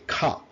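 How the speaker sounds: "খা" as an aspirated k sound; C pronounced kha. Shown as a demonstration. Teacher showing learners the sound of C, pronounced kha. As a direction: say "খা" with a puff after the k. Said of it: "সি এর sound হচ্ছে".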